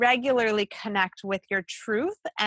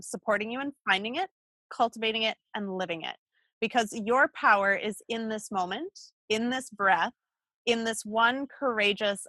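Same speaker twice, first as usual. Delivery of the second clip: deliberate, phrase-by-phrase reading that slows to the end; bio read-aloud. Real, not acted. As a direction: read it like an inspirational closing, pausing between phrases. Reads close of guest's bio.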